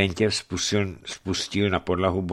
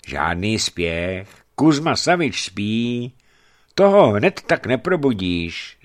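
put-on grumbling old man; 2 semitones higher, 5 dB louder than usual. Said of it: "zabručil stařec".

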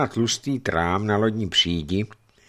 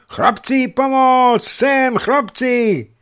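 high, loud desperate cry; a boy screaming for the sailors; loud, high call for help; shouting for help; 8 dB louder, much slower than usual. Acted. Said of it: "křičel Jegor".

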